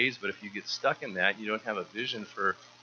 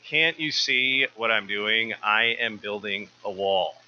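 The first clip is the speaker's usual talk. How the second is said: louder, slow, exasperated explanation; impatient worker; 5 dB louder, slower than usual. Acted. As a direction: lay out the obvious slowly to the questioner. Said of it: "He said".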